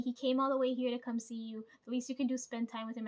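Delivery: loud mock scolding, quickening; half-hearted imitated yell; retold yelling. Friend scolding her to spend time with him, mock yelling. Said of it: "she's yelling at me".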